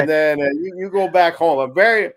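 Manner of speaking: high, self-important hero voice; hammed-up noble hero; mock noble sacrifice. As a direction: play up the selfless sacrifice.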